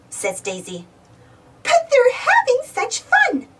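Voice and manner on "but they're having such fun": giggling. A narrator's reading. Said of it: "Minnie giggles".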